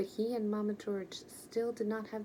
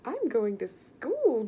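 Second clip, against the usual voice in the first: loud, slow, high squeal of joy; excited squeal; 4 semitones higher, 10 dB louder, slower than usual. A narrator's reading. George learns he can go to school, loud joyful squeal. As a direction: squeal with delight. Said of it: "George squealed".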